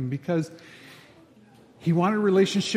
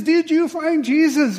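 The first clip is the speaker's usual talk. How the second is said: preacher's question; 10 semitones higher, 5 dB louder than usual. Retold or imitated. Preacher asks after dunking.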